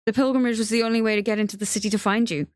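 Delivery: eager to be believed; earnest explanation. Acted. Theo telling Benji why he came, earnest and pleading.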